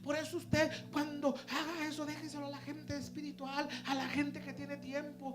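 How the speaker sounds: loud high scolding lecture; scolding copastor. Retold or imitated. Copastor lectures the young preacher, loud and stern. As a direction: warn him sternly and loudly. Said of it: "regañada".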